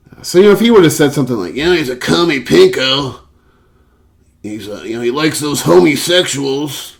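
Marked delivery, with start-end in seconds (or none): 1.5-7.0 louder, higher mock redneck; bigoted hick. Imagined coworker slurring Rollins, loud high mock hick. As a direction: sneer it like a small-town bigot.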